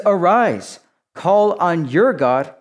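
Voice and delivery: loud, high, slow call to rise; urgent command. Acted. Captain ordering Jonah up to pray, loud and slow. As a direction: rouse him to pray.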